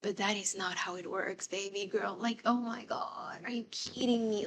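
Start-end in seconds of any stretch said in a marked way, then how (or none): 2.2-4.5 exasperated mutter. Real, not acted. Exasperated aside to viewers.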